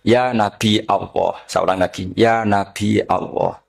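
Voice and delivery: slow Nabi' Allah, glottal catch before Allah; Nabi with hamzah. Retold or imitated. Man addressing the Prophet, slow hamzah on Nabi. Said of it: "bilang begini".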